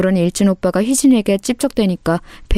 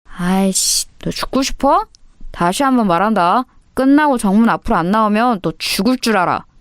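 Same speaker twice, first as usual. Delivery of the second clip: threatening bully. Acted. Bully ordering a girl to the front gate, threatening. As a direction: threaten with irritated impatience. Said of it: "희진이를 협박했습니다".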